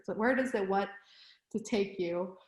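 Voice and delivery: words stretched by a yawn. Real, not acted. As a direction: talk through a yawn. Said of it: "Oh, sorry, I'm yawning".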